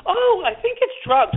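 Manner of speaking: put-on high, slow, airy girl voice; casual girl. A girl telling the cop her friend is in for drugs, slow and high. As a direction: say it like it's no big deal.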